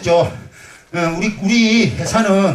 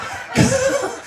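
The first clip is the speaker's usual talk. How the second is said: a sudden high giggle; high burst of laughter. Real, not acted. Performer laughing at his own wink demo for the audience, high giggle. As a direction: let a squeal of laughter escape.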